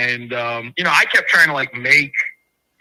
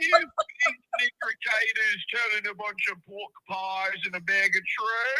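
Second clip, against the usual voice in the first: mock British accent. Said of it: "I'm British".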